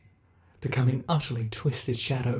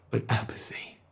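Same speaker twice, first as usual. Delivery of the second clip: whisper; 3 dB quieter than usual. Acted. Monster lowers voice.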